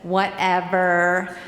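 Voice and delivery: slow, dismissive drawn-out whatever; mock a jealous girlfriend's brush-off. Jealous girlfriend brushing off the narrator, slow and dismissive. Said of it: "got really close to me and says".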